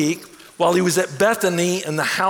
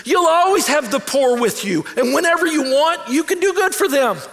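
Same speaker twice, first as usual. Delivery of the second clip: fervent preached shout; 9 semitones higher than usual. Retold or imitated. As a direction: thunder out Jesus' words to the crowd. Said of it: "He says".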